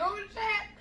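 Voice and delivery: very high, small exclamation; reenacted high nervous yelp; retold nervous shock. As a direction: squeak it out, acting scared. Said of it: "so, like, scared and nervous".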